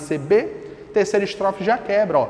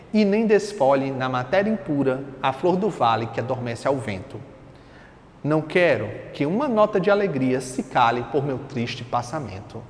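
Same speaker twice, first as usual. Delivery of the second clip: poetry recitation; 4 semitones lower than usual. Acted. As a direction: recite solemnly, letting the last word drop. Reads poem aloud.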